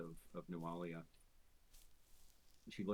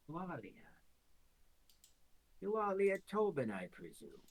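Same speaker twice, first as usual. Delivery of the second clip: mysterious voice; 8 semitones higher, 4 dB louder than usual. Acted. Mysterious voice from the dark.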